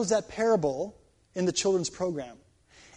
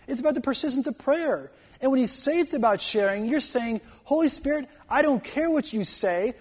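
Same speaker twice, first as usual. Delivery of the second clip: worked up, higher-pitched protest; getting emotional; 5 semitones higher than usual. Real, not acted. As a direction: preach it with rising, real indignation. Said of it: "sorry, I'm getting so emotional".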